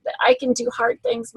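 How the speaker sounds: high-pitched mock tearful child; lightly imitated weepy kid; imitating tearful daughter. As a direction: put on a high little voice, as if crying. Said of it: "she'll cry and cry and cry".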